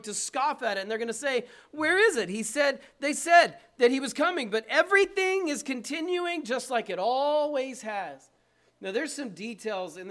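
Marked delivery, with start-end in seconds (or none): 1.7-8.3 higher-pitched mock challenge; lightly acted, raised-voice mockery; mocking scoffer. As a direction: scoff at it as a doubter would. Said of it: "They're going to mock it".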